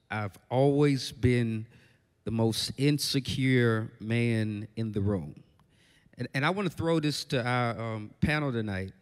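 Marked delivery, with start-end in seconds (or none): 0.1-5.4 slow, measured quote leaning on "insecure"; lower, deliberate delivery with "insecure" emphasized; stress on INSECURE. Retold or imitated. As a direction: quote it slowly, weighting the word "insecure". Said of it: "the emphasis on the word insecure".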